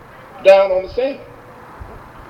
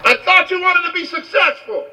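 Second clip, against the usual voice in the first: high, drawn-out guru yell; big high-pitched challenge, stretched out; acted yell. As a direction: yell it slowly across the water. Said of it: "the guru yells out".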